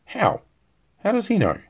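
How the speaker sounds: high, loud alarmed questioning; shocked demand. A narrator's reading. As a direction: demand it in disbelief.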